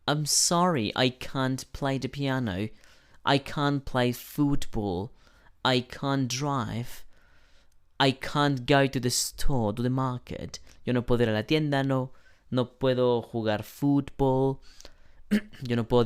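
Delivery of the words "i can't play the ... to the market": British "can't" with a broad ah in each example; slow model sentences, "can't" said as "kahnt"; British pronunciation. Shown as a demonstration. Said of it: "En británica es can't".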